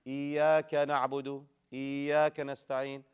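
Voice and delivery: "إياك" smoothed into a long vowel without stressed y; no emphasis. Shown as a demonstration. Teacher shows what not to say, no emphasis. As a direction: glide through the y of "إياك" with no push. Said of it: "You don't just say".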